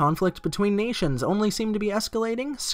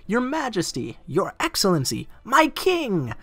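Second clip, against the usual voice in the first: greeting the king; 3 semitones higher than usual. Acted. Guests greet the king in text.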